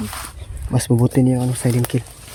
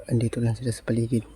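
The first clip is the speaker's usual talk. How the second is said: whispering while hiding; 2 semitones lower, 13 dB quieter than usual. Real, not acted. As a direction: speak softly so nobody hears. Huwag kang gagalaw para hindi nila tayo makita.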